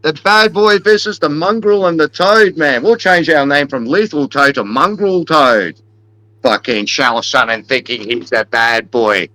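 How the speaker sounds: hyped-up fight callout, punching the taunts; mock fight promo aimed at Chael Sonnen; trash-talk promo. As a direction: play the cocky wrestling-style heel calling out his rival. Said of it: "fuck that promo".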